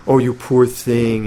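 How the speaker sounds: slow mock pity, drawn out; patronizing pity. Teacher mocking selfish pity, slow and patronizing. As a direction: lightly pity them from above. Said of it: "like patronizing attitude".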